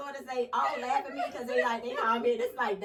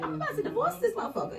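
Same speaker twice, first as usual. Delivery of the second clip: laughing; 11 semitones higher, faster than usual. Retold or imitated. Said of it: "'Cause I'm like".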